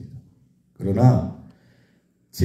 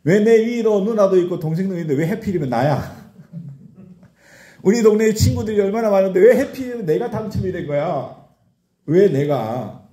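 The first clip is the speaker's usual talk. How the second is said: complaining whine; 7 semitones higher than usual. Retold or imitated. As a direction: whine like you were cheated by fate. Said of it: "이런 원망이 불쑥불쑥 나와요". (억울해서 높고 크게 투덜대는 목소리)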